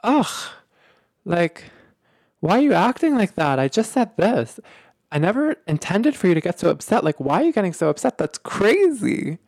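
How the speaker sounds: mock the partner waving off the fuss; dismissive partner. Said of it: "respond back by saying something like".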